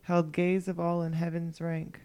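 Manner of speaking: slow measured poem recital; poem reading. Acted. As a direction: read it like a poem, slowly. Reads her poem aloud.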